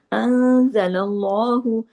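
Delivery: अंज़लल्लाहु slow, the nun hidden in a full nasal hum; drawn-out recitation. Shown as a demonstration. Teacher reciting अंज़लल्लाहु slowly for students, nasal ghunna held. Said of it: "इख्फा हकीकी गुन्ना कामिला".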